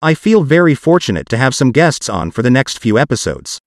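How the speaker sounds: synthetic text-to-speech voice; computer-generated voice. Real, not acted. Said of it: "my parts will be done with a computer-generated voice".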